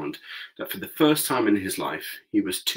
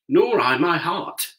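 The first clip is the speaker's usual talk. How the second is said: Tin Woodman; 9 semitones higher, 6 dB louder, slower than usual. A narrator's reading. Tin Woodman voiced in story.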